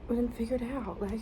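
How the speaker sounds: a soft whispered pep talk to yourself; encouraging whisper. Real, not acted. Student encouraging herself about assignments, in a gentle whisper. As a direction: whisper it like a promise.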